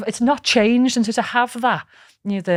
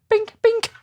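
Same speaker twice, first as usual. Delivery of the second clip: imitated clicks. Shown as a demonstration. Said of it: "I just went".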